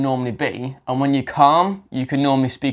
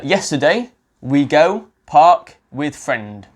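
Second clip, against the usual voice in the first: broken learner English; 3 semitones higher, 4 dB louder, much slower than usual. Shown as a demonstration. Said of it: "I've used the wrong tense there".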